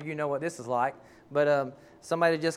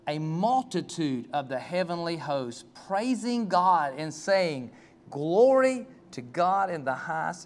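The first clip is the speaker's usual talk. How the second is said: slow, solemn reading of verse; scripture reading; slower than usual. Acted. Preacher reading Luke to the congregation, slow and solemn. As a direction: read it like holy writ.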